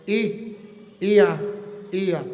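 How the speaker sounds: Ia said as ee-ah, two clear vowels; Ia, ee-ah, spelled out by sound; ia ending sound. Shown as a demonstration. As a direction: sound out Ia slowly as ee then ah. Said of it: "sino como".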